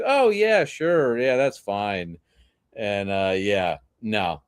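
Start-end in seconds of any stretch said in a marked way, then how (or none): 0.0-2.2 feigned agreement. Retold or imitated. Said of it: "I didn't have the heart to tell her no".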